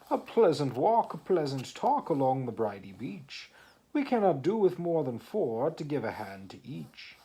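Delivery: coaxing walrus. Acted.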